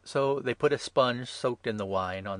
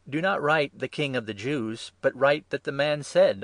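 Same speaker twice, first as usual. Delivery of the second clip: raised, louder, emphatic correction; priests' objection; 5 semitones higher, 7 dB louder than usual. A narrator's reading. Chief priests objecting to Pilate's inscription, emphatic. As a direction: object firmly to the wording.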